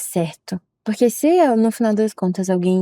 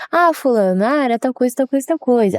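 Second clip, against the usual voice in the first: friendly voice note; 3 semitones higher than usual. Retold or imitated. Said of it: "A pessoa vai ver minha entonação de voz".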